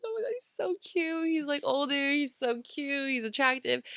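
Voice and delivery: lightly voiced swooning girls; gushing girls. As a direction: gush like a starstruck schoolgirl. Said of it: "We're like".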